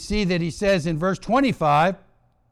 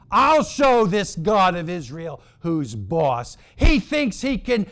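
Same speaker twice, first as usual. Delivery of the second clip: lightly acted indignant king, emphatic and a little higher; boastful king; 4 semitones higher than usual. Acting the angry king's boast.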